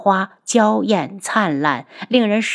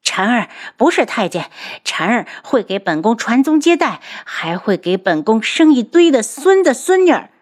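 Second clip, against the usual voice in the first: angry roar; 5 semitones higher than usual. Acted. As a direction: defend her son furiously. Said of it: "他怒吼着". (怒吼，声音越来越高)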